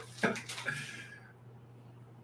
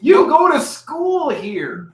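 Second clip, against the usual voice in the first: shouting; 6 dB louder, much slower than usual. Real, not acted. Teasing cohost for reading sticker.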